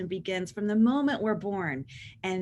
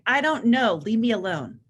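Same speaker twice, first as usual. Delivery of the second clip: put-on irritated teen; 6 dB louder than usual. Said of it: "your teen will say".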